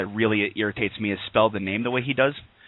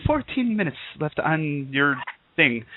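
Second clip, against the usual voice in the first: slow, higher mock British announcement; bad British accent; 3 semitones higher, slower than usual. Host imitating the radio service's British lady, bad British accent. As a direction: draw it out in a shaky attempt at British. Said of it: "that's my British".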